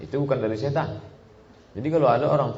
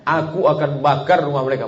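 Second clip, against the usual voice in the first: louder, higher angry threat; 6 semitones higher, 7 dB louder than usual. Shown as a demonstration. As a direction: spit out bakar in anger. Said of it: "ini ungkapan marah".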